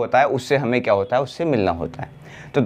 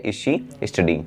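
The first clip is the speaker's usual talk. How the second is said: slow model question; 5 semitones lower, 3 dB quieter, much slower than usual. Shown as a demonstration. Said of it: "क्या वह पढ़ रही है".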